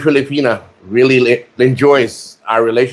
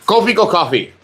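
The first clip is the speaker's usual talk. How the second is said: mock ad read. Mock sponsor announcement.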